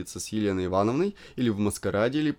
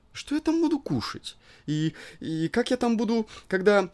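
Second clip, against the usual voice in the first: flustered squeamish wife; 3 semitones higher than usual. Acted. Elena flustered, disgusted.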